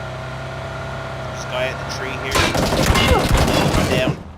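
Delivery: loud shout of alarm. Real, not acted. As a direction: yell it out as you drop. Downed in game.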